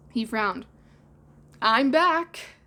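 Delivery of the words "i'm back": high, loud heated call; hot announcement. Acted. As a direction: say it hotly. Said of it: "he said hotly".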